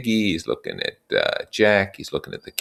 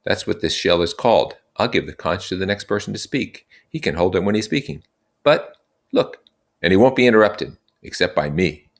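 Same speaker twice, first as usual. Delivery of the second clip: put-on raised, earnest young leader; Ralph addressing the boys; 4 semitones higher, 4 dB louder than usual. Ralph explaining their situation to the assembly, earnest and raised. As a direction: lay out the facts to the group.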